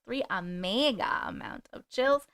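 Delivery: slow spooky whisper. Pretend. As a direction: whisper it slowly, like a ghost.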